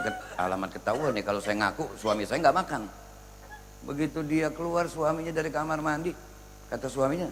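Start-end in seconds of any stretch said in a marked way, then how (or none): 0.1-2.9 hushed aside. Acted. Wife muttering to herself, caught.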